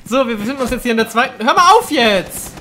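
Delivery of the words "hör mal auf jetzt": drawn-out protest. Real, not acted. Protest gegen Mitspieler.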